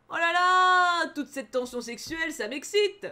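loud, high giddy gush. Acted. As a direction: squeal over the drama. Gushing over sexual tension. (s'extasie bruyamment)

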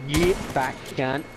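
casual Aussie insult, little effort; Australian accent. Shown as a demonstration. Friend asked for best Australian accent, delivers it lazily. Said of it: "give us your best Australian accent".

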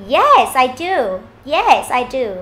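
upbeat answer, "yes" lifted; cheerful yes. Shown as a demonstration. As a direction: agree happily with a lively swing on "yes". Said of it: "mình sẽ đọc vui lên một xíu".

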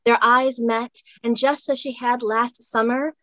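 expressive read-aloud of a light romance; story narration. A narrator's reading. Author reads her romance scene to the host, expressive narration.

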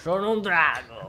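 slow pompous dragon voice; dark lord. Pretend. Player declares himself a dragon.

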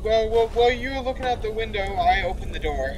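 loud, starting high and sliding down; hammed-up reveal settling back toward normal pitch; mock-sly reveal. Revealing the door trick, mock-sly.

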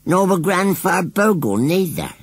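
high, loud rustic scarecrow; indignant. A narrator's reading. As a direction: insist on it, affronted. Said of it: "declared Gummidge indignantly".

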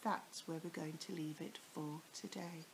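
soft unvoiced whisper; hush, story's over. Real, not acted. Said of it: "whispered sign-off".

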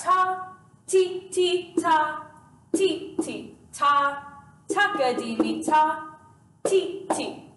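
ta, ti, ti, takadimi chanted in strict time; rhythm reading. Shown as a demonstration. Teacher reads out these rhythms for students, rhythmic chant. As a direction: read the syllables as an even rhythm. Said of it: "So we have these rhythms".

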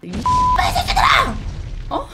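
a very high, slow, stretched-out screech of a curse; cursing yell. Retold or imitated. Retelling how she swore at the teenage bullies, a high drawn-out yell. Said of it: "쌍욕했어".

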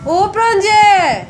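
sing-song calling. Acted. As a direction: stretch the name out playfully. Seeking child, calling name.

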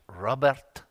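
put-on Italian accent. Italian friend addresses the young evangelist, lightly Italian-accented. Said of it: "with his Italian accent".

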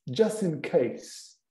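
just in case drawn out slowly; slow demo. Shown as a demonstration. Teacher modelling the phrase slowly for the students. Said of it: "No caso de já agora".

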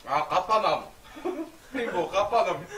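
laughing. Real, not acted. Amused reaction while eating.

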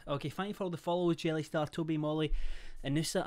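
breathless after rushing; panting slightly between names; out of breath. Real, not acted. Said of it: "I am out of breath".

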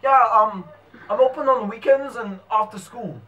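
put-on New Zealand accent; mock Kiwi sales patter. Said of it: "we're gonna Kiwi".

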